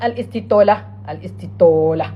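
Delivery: "Al-Istitola" with a rounded o vowel; mispronunciation. Shown as a demonstration. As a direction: say "Al-Istitola" with an o in place of the long a. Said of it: "Right pronunciation".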